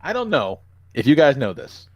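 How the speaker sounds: clickbait video narrator. Pretend. Mock trivia video narration.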